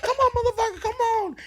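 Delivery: high, loud replay of her fight call; imitating angry challenge. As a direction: call them out, mock-furious. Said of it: "she starts to get mad".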